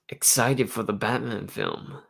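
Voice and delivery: tentative attempt at an American accent. Shown as a demonstration. Vlogger testing an American accent for viewers, half-joking. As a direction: try out a light American accent for the chat. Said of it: "my best American accent".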